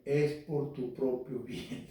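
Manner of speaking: slow, measured parental line; lightly voiced parent, drawn out; scolding parent. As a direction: imitate a parent explaining punishment. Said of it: "y te decían".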